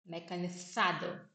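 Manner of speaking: slow Mecanizado with the z as th; Mecanizado, tongue between the teeth on z; lisp. Shown as a demonstration. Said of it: "Com a língua entre os dentes".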